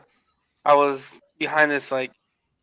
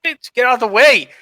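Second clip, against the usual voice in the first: mock angry yell; 8 semitones higher, 4 dB louder than usual.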